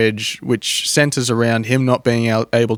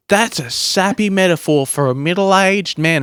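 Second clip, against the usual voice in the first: higher-pitched mock Australian wife; Australian accent; 7 semitones higher than usual. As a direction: put on an Australian voice for the unimpressed wife. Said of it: "she's Australian for some reason".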